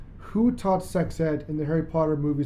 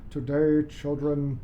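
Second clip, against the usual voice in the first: a stern teacher dropping to a hushed hiss; terrible Snape impression; 2 semitones lower, 5 dB quieter, slower than usual. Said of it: "My terrible, terrible Snape accent".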